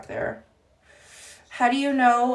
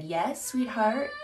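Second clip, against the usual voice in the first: retold sweet reply; 6 dB quieter, slower than usual. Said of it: "and I said".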